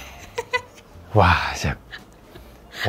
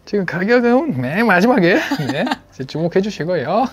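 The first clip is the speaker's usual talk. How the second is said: shopping host voice; 8 semitones higher than usual. Pretend. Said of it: "쇼호스트냐고 지금".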